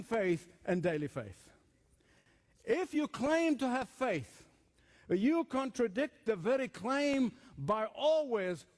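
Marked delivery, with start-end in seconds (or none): 5.1-8.7 slow phrase landing firmly on "always"; stress on ALWAYS. Real, not acted. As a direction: lean on "always" as the key word. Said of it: "underline the word always".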